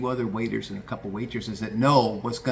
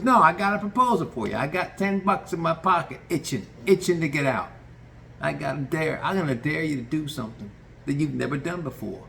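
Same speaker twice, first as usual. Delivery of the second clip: higher, eager voice laying out the dare; boss's pitch; 4 semitones higher than usual. Retold or imitated. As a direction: sell the dare with gusto. Tony proposing a dare.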